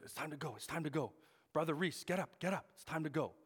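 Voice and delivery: a hint of an insistent man rousing a sleeper; urgent wake-up call. Brazilian man rousing a sleeping missionary, lightly acted urgency.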